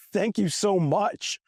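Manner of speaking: high, slow, overjoyed thank you; gushing thanks. Retold or imitated. Thanking the equipment guy for surprise cash, gushing. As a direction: gush it like he saved your life.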